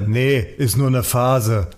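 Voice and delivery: electrician deadpan. Retold or imitated. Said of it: "der Elektriker sagte".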